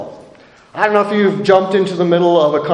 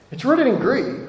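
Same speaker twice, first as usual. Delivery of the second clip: It's rooted in grief said softer, sinking down; softer echo; 3 semitones higher, 5 dB quieter than usual. Real, not acted. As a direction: repeat it to let it sink in, softer. Preacher repeats key phrase.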